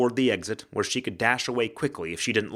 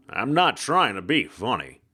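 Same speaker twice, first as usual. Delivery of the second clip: hard-boiled ghost; 3 dB louder than usual. Acted. Ghost detective voice.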